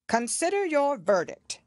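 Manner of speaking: high king's voice; the king prompts the jury. A narrator's reading.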